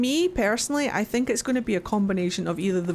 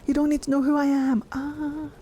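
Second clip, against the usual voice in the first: Solas voice; 6 semitones higher than usual. Retold or imitated. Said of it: "And Solas is like".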